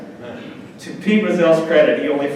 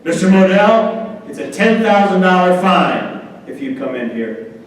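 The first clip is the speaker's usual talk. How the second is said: a hint of a booming referee; 3 semitones higher than usual. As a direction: lay down the law like a big official. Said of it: "Ben Dreith's voice just as strong".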